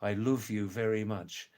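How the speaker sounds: a light Scouse accent, love said as luv with an oo vowel. Shown as a demonstration. Showing viewers how Liverpool people talk, in a Scouse accent. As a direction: demo Scouse: "love" rounded toward "luuv". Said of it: "they change into "uh".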